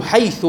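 "حيث" ending in a short a; fatha ending. Shown as a demonstration. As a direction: say "حيث" as haytha. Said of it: "وحيث بالفتح".

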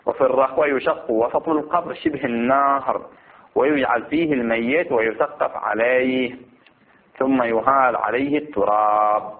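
slow, stretched phrase endings; measured classical Arabic recitation; formal text reading. Acted. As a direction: read the ruling out slowly and deliberately. Reads the book text aloud.

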